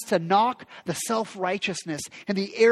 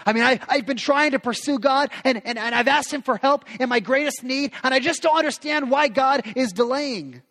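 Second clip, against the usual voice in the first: frustrated confession; 6 semitones higher than usual. Retold or imitated. Voicing frustrated friend.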